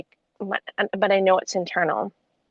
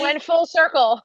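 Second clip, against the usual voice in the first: excited shout; 6 semitones higher than usual. Real, not acted. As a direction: shout it like a triumphant discovery. Shouted celebration of insight.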